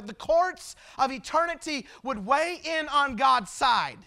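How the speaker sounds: emphatic pulpit delivery, building in intensity; forceful preaching. Real, not acted. Preacher lays out sin and God's plan, forceful preaching. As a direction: drive each point home.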